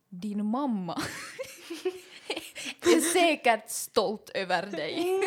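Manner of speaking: mock spiteful line, slowed down, broken by a laugh; retold cruel remark. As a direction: lay the final insult on slowly, half laughing. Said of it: "hon slutar sin mening med". (hånfullt, långsamt citerad elak replik)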